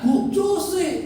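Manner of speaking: high mock calling out; retold shout. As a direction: imitate yourself calling out in alarm. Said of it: "Saya teriak". (menirukan teriakan memanggil)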